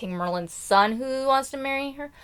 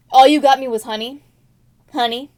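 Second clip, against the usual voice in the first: loud, ungrateful grumble; mock whiny complaint; 2 semitones higher, 8 dB louder than usual. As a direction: sneer it like a spoiled jerk. Ambassador complaining loudly.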